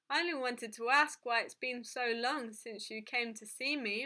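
plain reading voice

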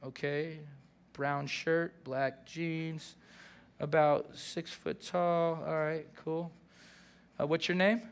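dry note-taking interviewer. Retold or imitated. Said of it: "they pull out a little notebook and they go".

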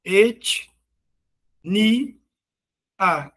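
"Et, ni, a" in separate syllables with long gaps; teacher sounding out "Et, ni, a" slowly. Shown as a demonstration. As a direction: break "Et... ni... a" apart, one syllable at a time. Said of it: "E sílabas?".

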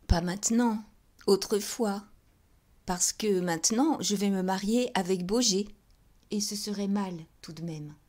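said out loud and firm; emphatic. Acted. Pauline tells Denise firmly about her marriage to Baugé. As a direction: insist she is marrying Baugé.

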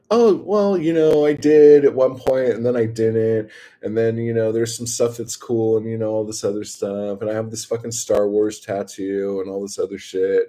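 mock nerdy over-explaining; nerdy rambling. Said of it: "being a fucking nerd over here".

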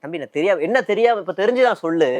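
mildly combative imitation, rising in pitch; mock quarrelling. Politician picking a fight with a younger man, mock quarrelling. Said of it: "வம்பா சண்டை இழுப்பாரு".

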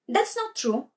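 mild, high-pitched protest; a touch of loud denial. A narrator's reading. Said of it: "Arya said loudly".

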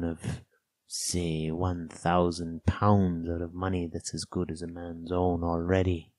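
slow castaway driving a bargain; Ben Gunn, wheedling castaway. Acted. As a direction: spell out the bargain slowly, emphatically.

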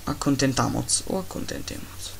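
musing over fake Spanish forms; mock Spanish. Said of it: "sto parlando una lingua che non esiste".

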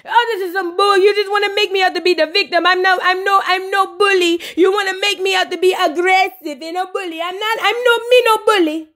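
high, mock indignant protest; a singer. The singer refuses the bully label, high mock indignation. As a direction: imitate a wounded, high-pitched denial. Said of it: "And look at Spice".

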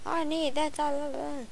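high-pitched playacted demand; mock yelling. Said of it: "starts yelling".

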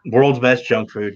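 World's best junk food drawn out slowly; a fond, slow catchphrase; slow, savoring. Retold or imitated. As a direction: lean into each word like a slogan. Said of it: "that's what she calls it".

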